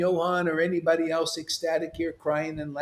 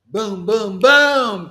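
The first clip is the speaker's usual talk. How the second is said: yelled boom; 2 semitones higher, 8 dB louder, much slower than usual. Real, not acted. Preacher yells boom describing sudden ecstasy. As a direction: fire it off like a cannon. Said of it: "Sorry about yelling".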